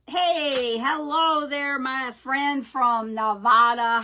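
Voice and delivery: loud, drawn-out mock greeting; playful imitation of a friend's hello; imitating a friend's greeting. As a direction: stretch out a big hello, copying a friend. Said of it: "I can't say it like you do".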